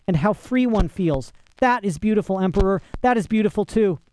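high, urgent, rapturous appeal; impassioned pleading. A narrator's reading. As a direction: beg for understanding in a high, fervent voice. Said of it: "pleaded the flyer, on his knees, the tears pouring".

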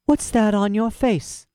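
smug barn cat needling the dog, slow and high; sly cat voice. Acted. Cat character speaks.

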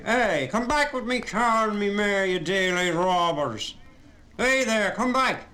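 loud, high outraged yell; furious yelling. Acted. Carman yells at the thieves driving off, loud high outrage. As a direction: scream at the robbers to come back. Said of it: "began yelling after them".

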